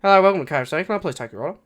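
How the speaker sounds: bright-pitched, loud greeting easing off; mock customer-service voice; fast-food staff member. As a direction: greet a customer as a drive-through worker. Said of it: "like a fucking K F C staff member".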